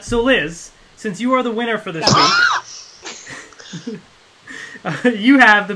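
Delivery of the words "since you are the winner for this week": slow, shouted announcement; excited announcing. Real, not acted. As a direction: draw it out like a host. Announcing the winner.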